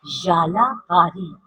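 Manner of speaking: याला बारी very slow with a y; slow model word. Shown as a demonstration. Teacher teaches the class याला बारी. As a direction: stretch याला बारी slowly. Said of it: "right pronunciation है याला बारी".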